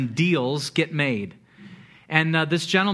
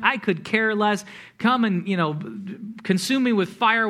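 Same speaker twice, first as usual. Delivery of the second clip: higher, dismissive mock outburst; imagined defiant rant; 3 semitones higher than usual. Daniel hypothetically telling off Babylon, mock defiant rant. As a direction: rattle off a mildly scornful list of refusals.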